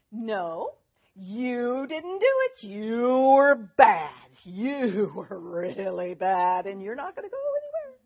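hammed-up yell with hugely drawn-out words; mock scolding. Shown as a demonstration. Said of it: "Now, did I have to say".

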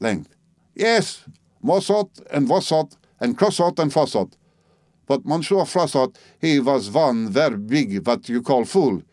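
a proud old Frenchwoman mocking him in her broken English; French-accented old lady. Old Frenchwoman mocking the narrator, French accent.

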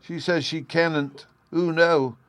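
put-on high, slow little boy voice; lightly voiced small boy, high and slow; childlike Bruno. A narrator's reading. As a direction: play a small boy pleading his case. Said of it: "Bruno went on addressing his father".

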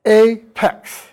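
"apex" as two beats, "ay, pecks"; split into syllables. Shown as a demonstration. Lecturer showing the consonant in the same syllable, syllable by syllable. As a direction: separate "apex" before the p. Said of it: "consonant in the same syllable".

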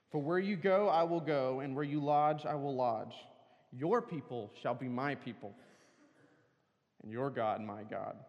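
a preacher reading from the pulpit, building on the repeated pairs; the pastor reads Ruth's vow to the congregation, solemn reading; scripture reading. Acted.

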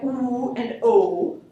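oo and o said slowly with lips rounded; rounded vowels. Shown as a demonstration. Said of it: "produced with round circle lips".

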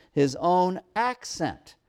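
put-on slow, deliberate reading with weight on "accent"; stress on accent. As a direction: linger on "accent" to make it stand out. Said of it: "wanting to emphasize that word accent".

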